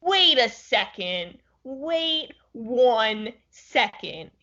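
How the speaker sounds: slow, drawn-out disbelief; playful stunned accusation, words stretched out; mock incredulity. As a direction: stop everything and interrogate your friend slowly. Mock interrogation over old ginger beers.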